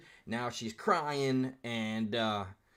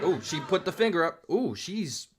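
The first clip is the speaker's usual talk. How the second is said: louder, higher gleeful ooh; excited ooh; 5 semitones higher, 4 dB louder than usual. Real, not acted. Reactor watching the heckler raise a finger, gleeful. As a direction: relish the drama out loud.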